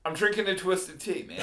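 laid-back drawl. Real, not acted. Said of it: "The way you said that was beautiful".

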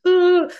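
high, loud mock-upset "ooh"; freaked-out "ooh". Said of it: "freak out when they leave camp".

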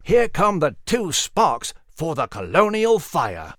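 raspy hushed whisper; hoarse whisper. Acted. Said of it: "Nigel whispered hoarsely".

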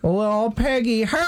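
put-on very high baby-talk voice; cutesy cooing. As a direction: coo it as if to a little pet. Cooing over the pig.

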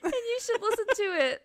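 high hammed-up plug; mock ad read. Finishing the podcast ad despite his wife's teasing, mock announcer voice. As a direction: sell it like a cheesy radio spot. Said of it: "I started this advertisement for our podcast".

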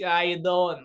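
a light Italian American "How you doing?"; typical Italian American accent. Shown as a demonstration. Comic demoing a Tony Soprano voice for the host, light Italian American accent. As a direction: drop a quick Italian American greeting. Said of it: "I just did a typical, Italian American accent".

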